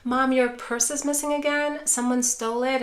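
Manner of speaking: concerned and empathetic. Shown as a demonstration. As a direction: meet her upset with sincere concern. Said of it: "match it with concern".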